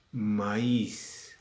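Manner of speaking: "maíz" in two syllables, ma-ÍS; hiatus in maíz. Shown as a demonstration. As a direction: stress the í of "maíz", apart from the a. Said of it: "No estoy diciendo maíz".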